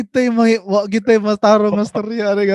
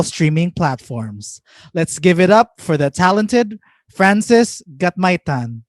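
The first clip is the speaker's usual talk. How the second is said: guest introduction. Acted. Host introducing a musician to listeners, measured announcer read. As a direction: read out the artist bio with deliberate pauses.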